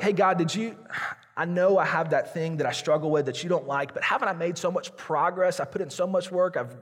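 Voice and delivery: mock a proud pray-er listing his efforts; lightly imitated boastful appeal to God; self-righteous plea. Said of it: "We clean ourselves up before God".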